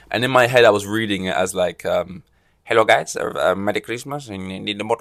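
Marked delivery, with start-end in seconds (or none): 2.6-4.9 put-on a light, unplaceable European accent on the greeting; imagine him greeting fans in a vague European accent. Reading Tindall's quote in a vague European accent. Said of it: "vague, non-regional European accent".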